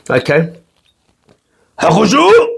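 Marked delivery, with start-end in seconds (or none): 1.8-2.5 Hakushu shouted high from the gut. Shown as a demonstration. Showing viewers how to say the whisky's name. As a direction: bellow Hakushu like a movie samurai. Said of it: "Yeah, that's how you say it".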